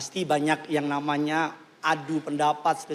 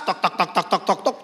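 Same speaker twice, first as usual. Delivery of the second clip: steady ticking at the top; imitated coaster clacking. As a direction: mimic the ratchet before the drop.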